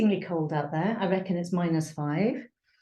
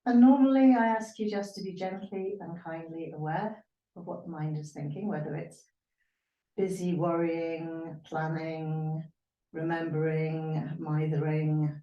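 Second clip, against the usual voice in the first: guided meditation. Real, not acted. Yoga teacher asking students to watch their minds, guided meditation. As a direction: lead them gently inward, lingering on the list.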